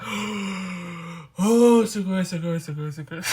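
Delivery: loud, gushing, in a put-on voice; imitating amazed gushing. Japanese people hearing she studies law, imitated amazed gushing. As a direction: gush like a wide-eyed fan.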